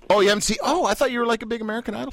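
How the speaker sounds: high-pitched surprised reaction. Real, not acted. Host surprised guest hasn't watched.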